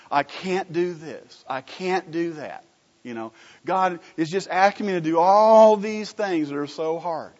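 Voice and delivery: mock a reluctant believer griping at God; whiny complaining believer. Preacher mimics a believer complaining God asks too much, whiny. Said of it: "have this idea that living for Jesus is just a real downer".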